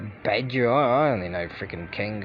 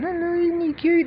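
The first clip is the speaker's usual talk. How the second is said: squeaky, much higher mock baby-talk coo; mock tourist coo. Naive tourist cooing at a cute wild animal, mock squeaky coo.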